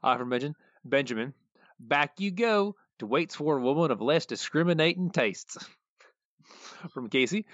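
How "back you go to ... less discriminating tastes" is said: slow, slightly higher hillbilly drawl; a light take on a dim country yokel; slow lilting yokel voice; Cletus voice. Retold or imitated. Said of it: "I'll start out doing the Cletus voice".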